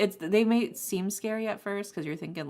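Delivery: usual speaking voice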